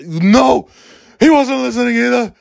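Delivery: put-on old New York teacher, high and loud; Ken Jacobs impression. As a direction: bark the question like a fed-up old New Yorker. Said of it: "that's what Ken Jacobs sounded like".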